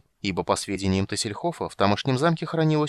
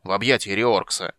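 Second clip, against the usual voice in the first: louder, stressing объятия in annoyance; irritated repeat; 3 dB louder than usual. Acted. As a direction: spell it out as if to a fool. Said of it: "раздражённо повторил гном".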